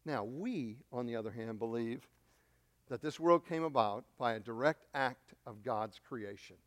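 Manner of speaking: low, soft statement of belief; hushed conviction. Real, not acted. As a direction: drop right down, quiet and measured. Preacher turns to stating belief.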